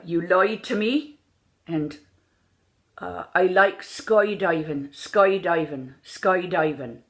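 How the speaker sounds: Irish lilt, drawn-out skydiving; Irish accent. Shown as a demonstration. Coach giving sample phrases to accent students, Irish accent. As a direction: demonstrate an Irish accent, stretched vowels. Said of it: "understood for this accent".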